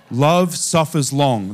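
slow, measured line of verse; poetic. Shown as a demonstration. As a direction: draw it out like poetry. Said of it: "This is poetic".

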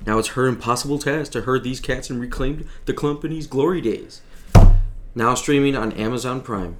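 trailer announcer read; network promo voice. Acted. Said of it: "You've been working on your promo voice".

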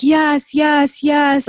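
mother imitating her daughter's eager high yeses; desperate pleading. Mom retelling daughter begging for a puppy, eager high pleading. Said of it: "like, desperate to buy this puppy".

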